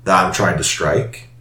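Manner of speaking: smooth dealer making an offer; Mister LaCroix voice. Acted. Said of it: "He's like".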